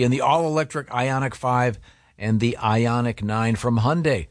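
easy conversational host-read commercial; radio ad read. Acted. Host reads car ad.

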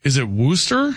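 "Worcester" as WUSS-ter, rising like a question; queried pronunciation. Shown as a demonstration. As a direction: ask "Worcester" with two syllables, WUSS-ter. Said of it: "they also wanna hear you say".

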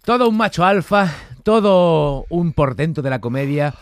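grand announcer-style proclamation; mock-heroic tribute. Host honouring Gorka for finishing the bravas challenge, mock-heroic. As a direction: build a ceremonial tribute, stressing each title.

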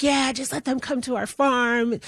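retold mob talk, lightly acted. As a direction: mimic a townsperson egging on the crowd. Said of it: "it turned very mob-like".

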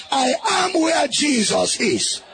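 shouted line for the crowd to echo; loud call-and-response declaration. Shown as a demonstration. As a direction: proclaim it loud with the congregation. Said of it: "Say with me very loud".

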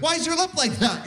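put-on high, innocent little kid voice; kid's blunt question. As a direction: play a curious small child.

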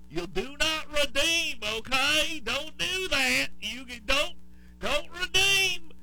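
loud, high-pitched mock Indian accent. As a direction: plead slowly in an exaggerated Indian accent. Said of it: "my Indian accent's better than my Southern accent".

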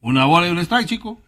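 Cuban-style baseball call; Cuban accent. Shown as a demonstration. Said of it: "A ver, hazle así como cubano".

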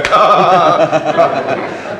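long low chuckle; rolling low laughter. Acted. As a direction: let out a drawn-out, low laugh. Official's reaction to formal permission.

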